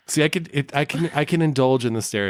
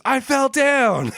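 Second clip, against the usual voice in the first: man's voice; 4 dB louder, much slower than usual. Retold or imitated. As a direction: say it like a grown man. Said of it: "He says it completely like a man".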